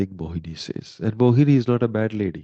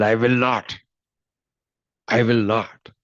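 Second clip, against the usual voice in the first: heated refusal. Retold or imitated. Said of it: "It heated up".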